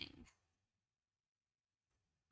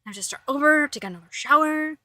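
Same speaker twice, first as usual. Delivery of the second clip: voicing the cat; 3 semitones higher, 3 dB louder than usual. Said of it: "He's vigorously grooming himself".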